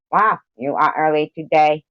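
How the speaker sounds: a lightly voiced Springman; imitating Springman. Streamer mimicking Springman greeting a viewer. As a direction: mimic a friend's voice, loosely. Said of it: "Maybe I'll talk like Springman".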